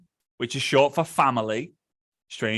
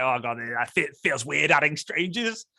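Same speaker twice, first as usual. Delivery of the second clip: understated imitation of a hesitant worrier; mild mock unease. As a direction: voice a doubt, only lightly uneasy. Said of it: "because you might think like".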